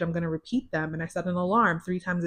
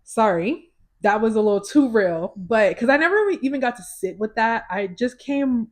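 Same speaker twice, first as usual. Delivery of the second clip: real emotion catching her mid-sentence; getting emotional; 3 semitones higher, 5 dB louder than usual. Real, not acted. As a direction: voice a little higher and louder as emotion rises. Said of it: "I'm getting emotional".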